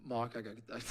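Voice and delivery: put-on faltering stab at a Southern accent; bad Southern accent. Quoting Missus Frazier to his co-host, faltering Southern accent. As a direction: try a Southern voice and give up halfway. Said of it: "I can't do a Southern accent".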